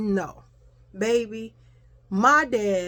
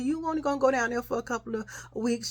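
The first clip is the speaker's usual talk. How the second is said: imitated reassurance; 3 semitones higher, 6 dB quieter, faster than usual. Mother reassures hugged child.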